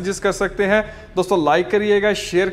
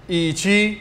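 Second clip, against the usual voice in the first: slow review; much slower than usual. Shown as a demonstration. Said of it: "reviewing words slowly".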